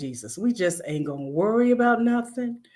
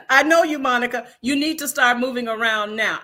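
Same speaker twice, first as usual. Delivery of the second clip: quoting husband; 5 semitones higher, 3 dB louder than usual. Retold or imitated. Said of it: "he'll get on my nerves by saying".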